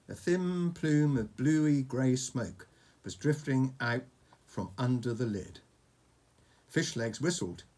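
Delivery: measured bedtime-story narration; story read to a child. A narrator's reading. Reading a dragon story to Oscar, storytelling. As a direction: tell it like an adventure tale, phrase by phrase.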